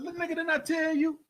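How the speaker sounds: high, loud, imitating the furious dad; angry warning. Girl's father warning the young man, angry.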